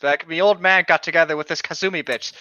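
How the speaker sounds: reading the fanfic in a hammed-up Aussie accent. Reading the stepmom fanfic aloud in an Aussie accent. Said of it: "why are you voicing someone with an Aussie accent".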